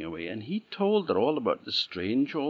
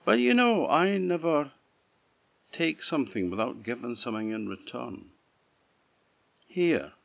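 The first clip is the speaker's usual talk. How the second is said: put-on high, louder old woman insisting; knowing old crone, pitched up and firm; old woman's voice; 6 semitones higher, 3 dB louder than usual. Old woman gives bridle.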